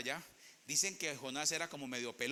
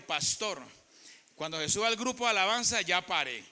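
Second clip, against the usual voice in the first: a touch louder, firm reminder; retold instruction; 6 dB louder than usual. Preacher retelling staff telling him to stop, firm. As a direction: relay the warning with mock insistence. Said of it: "ayer me dijeron".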